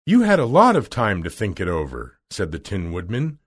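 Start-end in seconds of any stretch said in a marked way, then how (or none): 0.1-2.2 acted indignant retort; a touch of anger, firmly stressed; angry. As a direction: throw the excuse back at the wizard. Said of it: "He was very angry".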